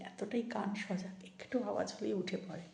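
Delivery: quiet sign-off near a sleeping dog; soft voice. Real, not acted. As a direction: keep it hushed and gentle. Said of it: "আমি আস্তে আস্তে কথা বলছি".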